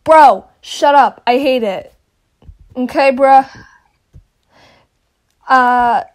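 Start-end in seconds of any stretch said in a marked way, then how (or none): 0.0-1.9 playful shut up. Real, not acted. Insisting over praise.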